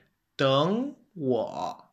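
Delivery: "等我" with "等" rising in second tone, then "我" dipping; tone sandhi demo. Shown as a demonstration. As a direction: say "等我" as two three. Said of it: "You would say".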